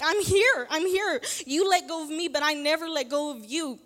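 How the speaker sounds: loud, high, impassioned answer; emphatic divine reassurance. Acted. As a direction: insist it like God answering a doubter. Acts out God's emphatic answer.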